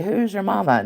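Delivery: mock game-show host; Maury host line. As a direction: ask it like a talk-show reveal. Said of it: "It's gonna be".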